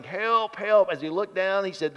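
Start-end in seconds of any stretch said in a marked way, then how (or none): 0.0-0.9 higher, moderately raised cry for help; mock yell for help. Man dangling from a twig yells, mock cry for help. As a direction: act out a mild yell from the cliff.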